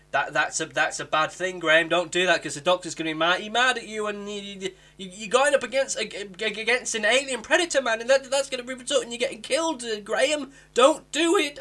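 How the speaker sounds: hammed-up frantic warning to Graham; mock alarmed pleading.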